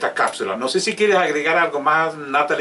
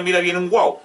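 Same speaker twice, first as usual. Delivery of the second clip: put-on baby talk example; 5 semitones higher than usual. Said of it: "jamás le diga al niño".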